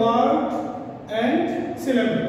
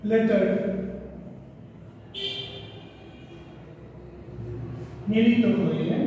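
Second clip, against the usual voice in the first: dole it out phrase by phrase for note-takers; teacher dictating a definition, bit by bit; slow dictation; 9 dB quieter, slower than usual. Real, not acted. Dictates definition for pupils to write.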